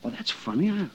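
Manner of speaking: softly mumbled to oneself; half-voiced puzzling over a discovery; mumbling. Noticing something in the witness's papers, mumbling. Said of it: "What are you mumbling about?".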